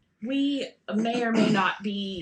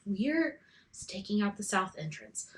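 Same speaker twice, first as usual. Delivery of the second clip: leaning in to whisper; 6 dB quieter than usual. Pretend.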